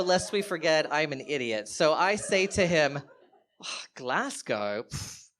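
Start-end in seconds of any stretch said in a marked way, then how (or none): 3.9-5.3 slow, haughty mock-British dismissal; put-on British accent. Tipsy fake Brit dismissing Glasgow, in a British accent. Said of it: "pulling out my British greatest hits".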